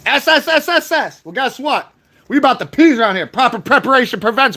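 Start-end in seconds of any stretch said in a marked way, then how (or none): 0.1-1.2 hissing like a snake; long snake hiss; drawn-out s like a snake. Retold or imitated. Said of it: "Slithery damn snakes".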